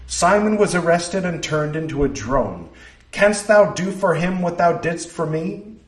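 a proud, puzzled maiden from another age; Blythe, archaic young woman. Acted. Blythe voiced in archaic speech.

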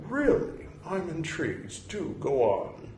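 high, lightly hammed-up posh intrigue; mock impressed academic. Serious academic reacting to Jungian framing, hammed-up intrigued voice. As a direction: play the serious scholar suddenly charmed.

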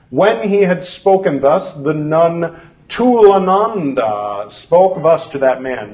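measured, deliberate scripture reading; formal reading aloud. Acted. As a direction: read it like an old formal text. Reads scripture text aloud.

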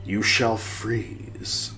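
slow solemn quote reading. Acted. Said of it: "putting that voice in quotes".

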